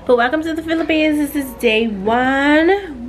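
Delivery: bright host intro in American accent; standard American accent. Real, not acted. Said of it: "Why do I sound like an American?".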